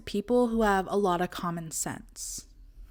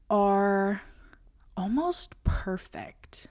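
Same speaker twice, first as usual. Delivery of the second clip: whispered; much slower than usual. Acted.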